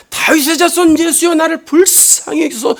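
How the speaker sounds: high-pitched plea without real volume; restrained mock shout; retold cry out. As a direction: imitate the blind man's call for mercy. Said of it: "소리 질렀다고 그랬어요".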